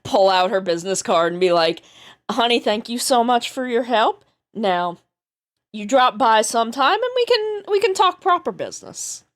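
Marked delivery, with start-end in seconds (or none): 2.3-9.2 lightly Southern businesswoman; Southern accent. Acted. Handing the treasure hunter her business card, light Southern accent. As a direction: thank them with a Southern lilt.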